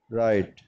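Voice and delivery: राइट said "rite", no gh sound; राइट with gh left silent. Shown as a demonstration. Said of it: "इसको हम पढ़ेंगे राइट". (राइट में जी एच silent)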